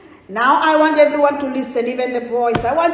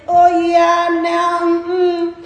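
drawn-out, hesitant Aussie hedging; 4 semitones higher, 4 dB louder, much slower than usual. Retold or imitated. Preacher mimicking how Australians start an answer, Aussie hesitation. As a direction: imitate an Aussie stalling, higher and held level. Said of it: "Australians, they don't go straight to the answer".

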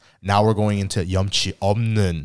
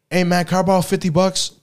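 higher, lightly voiced begging friend; cheeky borrower; 10 semitones higher, 3 dB louder than usual. Friend asking for fifty, mock pleading voice. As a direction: play the friend asking for more money. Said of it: "Two days later again".

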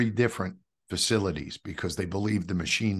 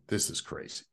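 breathy whisper of disbelief; 9 dB quieter than usual. Retold or imitated. Remembering the priest's words, a stunned whisper. I'm like.

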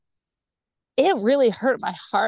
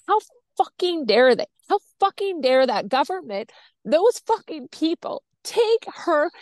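higher, heated retold rant; livid outburst; 5 semitones higher than usual. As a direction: relive the fury at the government. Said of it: "I was so livid".

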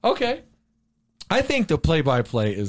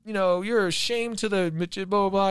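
high-pitched mock indignation; huffy, raised-pitch retort; mad; 6 semitones higher, 3 dB quieter, slower than usual. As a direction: imitate an offended man protesting. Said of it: "the guy got him mad".

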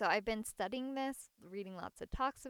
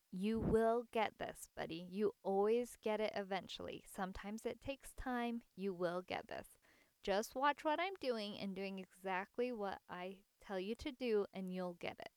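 patient encouragement. Retold or imitated. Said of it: "I kept being patient".

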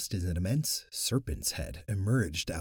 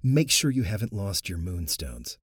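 announcing; 4 dB louder than usual. Acted. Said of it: "Luke announced".

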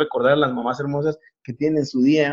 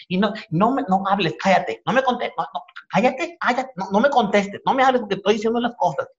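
higher mock scolding, cutting you off; angry mom; 6 semitones higher than usual. Comedian imitating his mom telling him to shut up. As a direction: shut down a back-talking kid. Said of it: "que te dicen".

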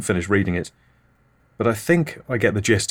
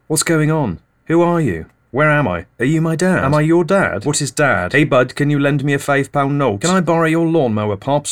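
higher, louder, pushy chummy patter; mock over-friendly neighbour begging favours, loud and high; pestering greeter; 4 semitones higher, 4 dB louder than usual. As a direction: rattle off nosy questions, loud and bright. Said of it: "A lot of people say to me".

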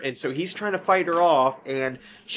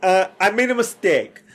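mock apology; 7 semitones higher, 7 dB louder than usual. Acted apology, louder, higher.

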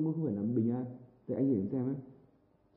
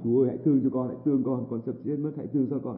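wailing plea; 4 dB louder than usual. Retold or imitated. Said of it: "kêu gào".

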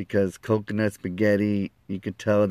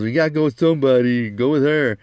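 loud, higher, hurried push; urgent urging; 4 semitones higher, 5 dB louder than usual. Retold or imitated. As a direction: urge him on, loud and high. Friend urging him, retold.

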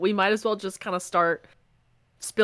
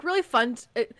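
sarcastic air quotes; 3 semitones higher than usual. Real, not acted. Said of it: "I say fun with air quotes".

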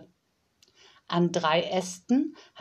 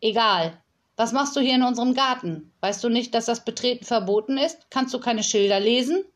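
sharp, fast and higher scolding; strict; 4 semitones higher, 4 dB louder, faster than usual. Acted. Yolanda scolds the little girl in the garden, strict and fast. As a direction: tell the intruder off briskly. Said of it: "fragte Yolanda streng".

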